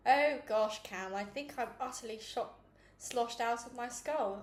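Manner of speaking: hammed-up tipsy slurring, slowing at the end; mock drunken slur. Girl faking being drunk for her friend, mock slurring. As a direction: pretend to be sloshed on a potion. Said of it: "I slurred, reeling around".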